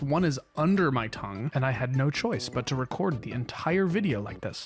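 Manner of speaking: sore mouth, careful speech; talking with canker sores. Real, not acted. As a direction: speak around a sore under the tongue. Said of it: "if you notice me talking weird in this video".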